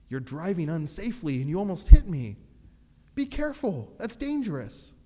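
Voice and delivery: loud, high warning shout at a driver; mock shout. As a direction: yell it across traffic. Yelling at unsafe driver.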